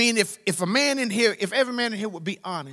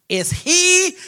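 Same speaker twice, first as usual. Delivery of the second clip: whisper; 11 semitones higher, 9 dB louder than usual. Acted. John whispering doubt in prison.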